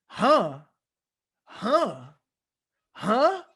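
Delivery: high, loud mock rage building up; animated mock rant. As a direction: ham up the coach going off over one word. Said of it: "so animated".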